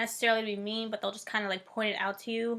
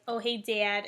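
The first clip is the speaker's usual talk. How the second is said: Cleveland accent with the vowel of "Dad" emphasized. Shown as a demonstration. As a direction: lean on the A in "Dad", Cleveland style. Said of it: "what the Cleveland accent sounds like".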